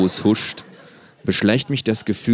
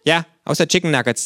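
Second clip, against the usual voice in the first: mouth full; 9 semitones higher, 5 dB louder than usual. Acted. Kangaroo character voice.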